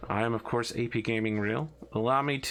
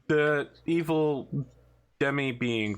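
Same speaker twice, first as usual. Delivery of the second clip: mock ominous; 2 semitones higher, slower than usual. Mock-solemn cult intro.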